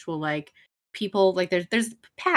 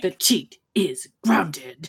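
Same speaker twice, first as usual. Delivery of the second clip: whispered; slower than usual. Retold or imitated. Quoting Strong Bad while laughing.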